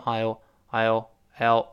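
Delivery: I'LL as one syllable, I will merged; contracted I'll. Shown as a demonstration. Teacher showing how I will contracts, merged. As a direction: say "I'll" contracted, repeated as a drill. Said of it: "I will变成I撇儿L L".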